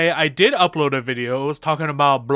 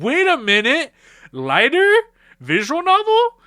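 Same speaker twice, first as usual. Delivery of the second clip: higher and climbing as the idea hits; excited realization; 11 semitones higher than usual. Real, not acted. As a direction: wait a minute, it's lighting up for you.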